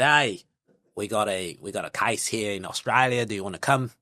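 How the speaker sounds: a hint of an Australian accent, self-consciously done. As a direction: pitch the Australia job in a mild Aussie accent. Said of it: "That's my best Australian accent".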